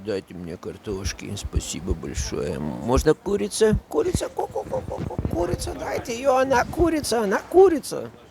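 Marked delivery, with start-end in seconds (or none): 2.6-8.1 mock, high, squeaky, silly voice. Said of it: "Stop mocking people".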